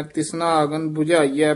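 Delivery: ਤਿਸਨਾ said lightly as tisna, not trishna; teacher models ਤਿਸਨਾ without the r; careful pronunciation. Shown as a demonstration. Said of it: "ਧਿਆਨ ਨਾਲ ਤਿਸਨਾ ਹੀ ਬੋਲਣਾ ਹੈ".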